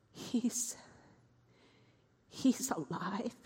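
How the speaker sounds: hushed, stunned whisper; awed whisper. Acted. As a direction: whisper it in disbelief. Stunned by news he is alive.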